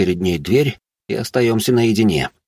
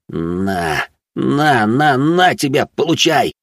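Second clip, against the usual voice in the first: gloating taunt; 5 semitones higher, slower than usual. Acted. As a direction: crow over the win. Gloating villain triumph.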